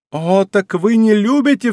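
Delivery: a wounded woman's outcry at her lover; exclaimed. Acted. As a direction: fling the reproach out as a cry. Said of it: "вскричала Мария Манчини".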